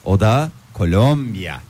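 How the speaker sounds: langsam, Wörter in die Länge gezogen; gedehnte Wörter. Acted. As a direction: jedes Wort genüsslich dehnen. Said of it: "Kelimeleri uzatarak".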